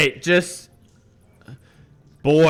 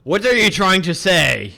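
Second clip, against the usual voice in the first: impatient demand; 7 semitones higher, 7 dB louder than usual. Acted. Baron questions son impatiently.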